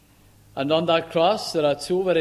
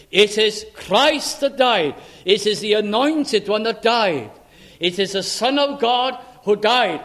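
"Christ" drawn out slowly and stressed; emphatic point; 3 semitones higher, 3 dB louder than usual. Acted. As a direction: lean hard on "Christ", then build through each restatement. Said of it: "but to emphasize his point, he says".

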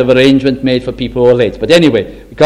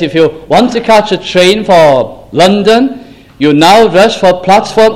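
station announcer; 4 semitones higher than usual. Retold or imitated. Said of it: "Or he says".

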